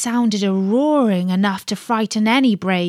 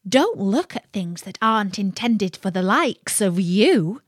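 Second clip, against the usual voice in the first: sly imp. Acted. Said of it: "said the imp".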